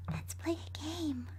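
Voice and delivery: slow creepy whisper. Acted. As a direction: breathe it slowly like a game. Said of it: "I whisper".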